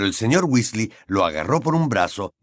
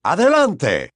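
out of breath; 6 semitones higher, 4 dB louder, slower than usual. Acted. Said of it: "dijo entrecortadamente".

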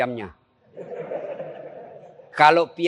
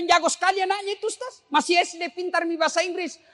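higher, quick boasting parent; proud parent; 9 semitones higher than usual. Retold or imitated. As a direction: brag about the child. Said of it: "Dia bilang". (orang tua membanggakan anak)

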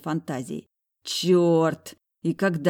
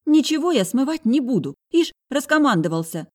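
high, loud mocking girl's voice; high defiant sister sneering; 9 semitones higher, 6 dB louder than usual. A narrator's reading. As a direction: scoff at his orders. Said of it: "Не думала затихать Тая".

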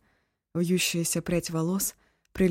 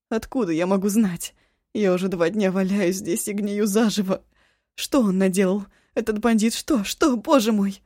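louder frantic questions; panicked; 3 semitones higher, 5 dB louder than usual. Acted. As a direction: demand answers in rising panic. Ashun panicking.

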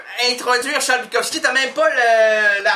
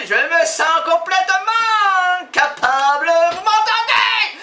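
slow, loud, higher overblown encouragement; mock grand pep talk; 5 semitones higher, 4 dB louder, slower than usual. Comedian encouraging the stalled guest with hammed-up pathos. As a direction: swell it like a hammed-up motivational speech.

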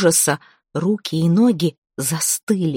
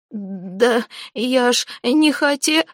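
high, slow, broken-off excuse; cut-off frightened plea; 6 semitones higher, slower than usual. Acted. Zateya tries to deny it and is choked off. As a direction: start to protest and get choked.

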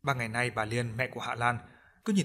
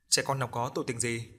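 ordinary delivery, nothing marked

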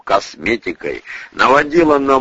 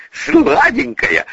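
put-on pleading old man; 14 semitones higher, slower than usual. A narrator's reading. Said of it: "подал голос Боник".

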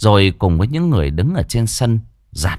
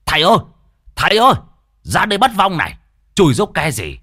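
high, mock-tearful call for the masters; comic whining plea, raised pitch; whimpering call; 7 semitones higher, faster than usual. A narrator's reading. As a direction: call out plaintively, nearly blubbering. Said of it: "lão mới mếu máo quay lại".

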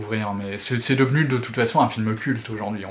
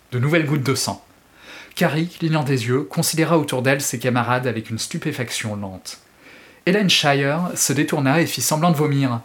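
dramatic audiobook reading; expressive French audiobook narration; story narration; 2 semitones higher, 3 dB louder than usual. A narrator's reading. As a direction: read the novel like a storyteller. Reads Stephen King excerpt aloud.

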